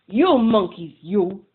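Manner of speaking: loud scolding call; scolding monkeys. Acted. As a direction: shake a finger and scold them. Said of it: "he said, shaking his finger".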